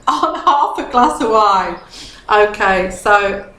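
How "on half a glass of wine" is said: tipsy laugh. Real, not acted. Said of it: "I've started to get tipsy".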